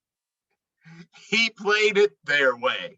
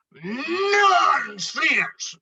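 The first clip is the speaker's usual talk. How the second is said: scoffing shout; 7 semitones higher than usual. Acted. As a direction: wave the friends away with a scoff. Moose dismisses the friends.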